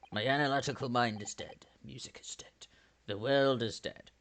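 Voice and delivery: hushed, dropping toward a whisper; hollow, defeated murmur; despairing. Acted. Detective declaring mind and music dead, bleakly hushed.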